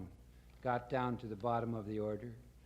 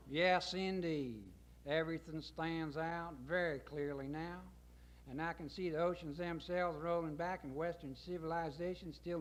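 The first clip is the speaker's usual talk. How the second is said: lightly voiced folksy president; a touch of self-important speechmaking; Colonel Corn Pone. Colonel briefing his gentlemen on Vietnam, lightly pompous folksy address.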